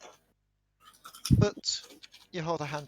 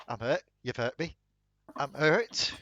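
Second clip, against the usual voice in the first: fake hurt; 3 semitones higher, 7 dB louder than usual. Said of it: "He's doing the".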